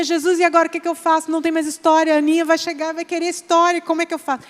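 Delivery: a hint of panicked father; mild desperation. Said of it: "o papai começou a se desesperar".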